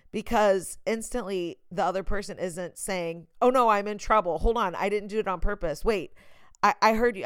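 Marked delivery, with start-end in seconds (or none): 3.4-7.2 panicked. Retold or imitated. Panicked person caught in trouble.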